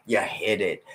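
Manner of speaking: hushed, breathy accusation; whisper. Retold or imitated. Someone realising they were lied to, whispered. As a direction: whisper the blame. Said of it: "And you think".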